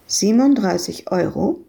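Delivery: ordinary delivery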